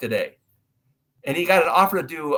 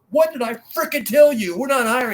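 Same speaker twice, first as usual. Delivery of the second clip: retold outburst, pitched way up; exasperated refusal; 10 semitones higher, 4 dB louder than usual. Warehouse man turns away a repeat asker, exasperated. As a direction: act out a fed-up man losing patience.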